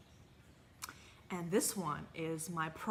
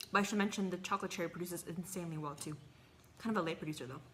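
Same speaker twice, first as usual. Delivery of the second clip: talking while chewing; mouth full; faster than usual. Real, not acted. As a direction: talk through a mouthful of tomato. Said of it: "talking with my mouth full".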